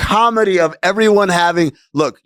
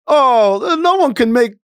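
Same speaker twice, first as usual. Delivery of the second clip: put-on higher, slow mean-girl sneer; mocking teen voice; 10 semitones higher, slower than usual. A hint of a mocking teen sneering about the chunky kid in glasses. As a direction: play the snooty classmate, higher and slower.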